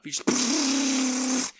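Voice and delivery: long rattling machine-gun noise; imitated gunfire. Ball gunner firing at planes, imitated gun rattle. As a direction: rattle off a mouth-made burst.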